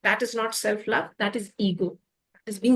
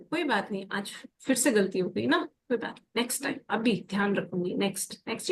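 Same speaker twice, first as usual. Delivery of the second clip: quiet, gentle self-talk, softer; soft self-reassurance; 3 semitones lower, 6 dB quieter, much faster than usual. Retold or imitated. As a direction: reassure yourself quietly and kindly. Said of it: "अपने आप को भी ऐसे ही बोलो".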